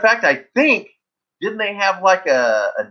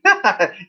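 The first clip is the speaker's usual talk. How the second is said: evil laugh; 8 semitones higher than usual. Pretend. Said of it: "Evil laugh".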